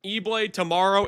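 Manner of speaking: tired, hoarse voice late at night. Real, not acted. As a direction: rasp it out with a worn-out throat. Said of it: "It's late and I have no voice".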